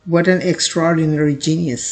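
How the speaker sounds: slow teacher's reading of the sentence; slow example sentence. Shown as a demonstration. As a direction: read slowly and clearly as a model. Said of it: "sentence में देखिए".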